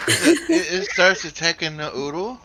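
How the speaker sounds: loud and high, disbelieving; shocked, high-pitched question; surprised. Real, not acted.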